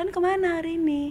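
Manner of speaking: gentle, soft, lifted voice. Showing how friends from Kalimantan or Bandung talk, soft, gentle delivery. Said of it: "itu kan lembut ya".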